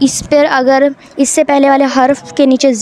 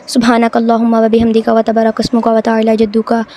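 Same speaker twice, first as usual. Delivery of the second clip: wrong hurried recitation; 2 semitones lower than usual. Shown as a demonstration. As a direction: rattle it off without tajweed care. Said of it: "ऐसे बिल्कुल नहीं पढ़ना".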